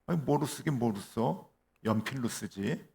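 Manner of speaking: acted puzzlement, pitch lifted on the question; mildly baffled retort. Soviet cosmonaut answering the Americans' odd question, mildly baffled. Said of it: "이상하다는 듯이".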